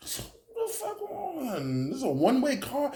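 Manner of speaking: can't believe what you're seeing; stretched-out high disbelief; incredulous. Retold or imitated. Sees car coming wrong way.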